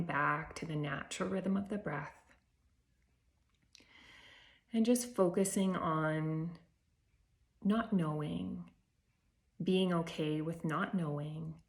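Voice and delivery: calm breath-practice voice with long pauses; unhurried meditation leading, spaced by silences; guided meditation. Real, not acted. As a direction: guide them gently inward, phrase by phrase. Leads a meditation.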